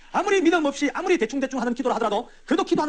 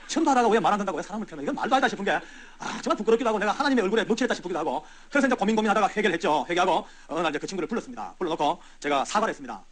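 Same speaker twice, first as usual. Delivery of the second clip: ordinary talk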